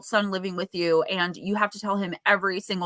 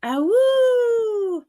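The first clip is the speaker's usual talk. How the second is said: long high howl like a big wolf; 13 semitones higher, 5 dB louder than usual. Acted. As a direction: throw your head back and howl. Card reading about wolf howl.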